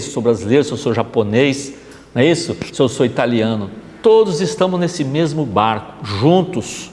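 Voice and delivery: normal talking voice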